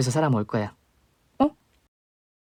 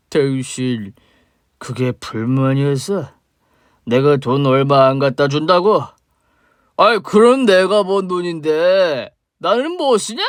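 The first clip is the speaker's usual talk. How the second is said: put-on slow, slurring drunk man, bitter and loud; a sloppy drunk spitting out old grudges; drunk father; 2 semitones higher, 5 dB louder, slower than usual. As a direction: drunk father accusing the woman he mistakes for his wife. Drunk father confronts ex-wife.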